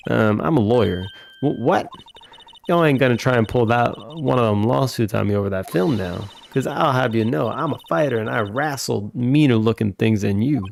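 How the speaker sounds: lightly voiced Southern country woman, scolding; Southern photographer. Lotta suspects a lawsuit.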